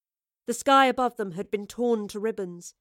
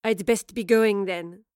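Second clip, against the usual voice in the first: smirking; 3 dB louder, slower than usual. Acted. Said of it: "said Lorelei with a smirk".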